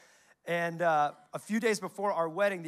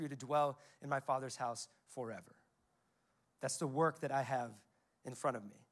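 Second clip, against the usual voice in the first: comforting; 3 semitones lower than usual. Retold or imitated. Jesus promising his disciples a home, calm and comforting. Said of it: "He's the one bringing the comfort".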